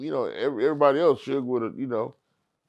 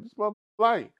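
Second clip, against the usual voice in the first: higher, put-on voice of a guy who knows guns; gun-handler knowing voice; 9 semitones higher, much faster than usual. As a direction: weigh the gun like an expert. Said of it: "somebody who busting guns like".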